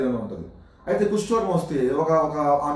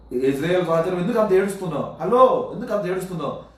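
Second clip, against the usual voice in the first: lightly acted prophet's challenge, a bit raised; mock chiding; 3 semitones higher than usual. Prophet asks the weeping king why he cries, mock chiding. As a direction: call out to him, mildly exasperated.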